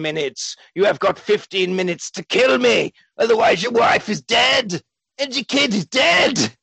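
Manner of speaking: mock villain laugh. Villain taunts Gary about the bomb, hammed-up. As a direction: cackle then gloat like a cheap villain. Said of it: "he's like".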